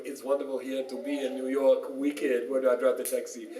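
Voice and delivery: lightly put-on Jamaican accent; hint of a comic Jamaican lilt. Rabbi mimicking how Yiddish sounds to Germans, light Jamaican accent. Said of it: "Nothing wrong with a Jamaican accent".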